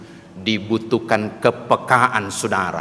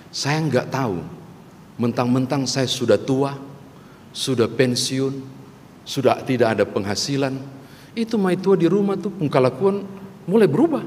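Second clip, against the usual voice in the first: put-on old man's Ambon-accented complaint, rising higher at the end; 3 semitones higher than usual. Retired old man complains to his friend, Ambon accent. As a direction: grumble in Ambon dialect, pitch climbing. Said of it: "logatnya mirip Ambon".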